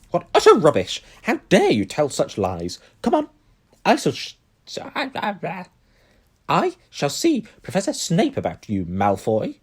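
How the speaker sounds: loud, high, indignant professor; angry scolding. A narrator's reading. McGonagall scolding Malfoy, loud and high. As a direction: tear into him for lying.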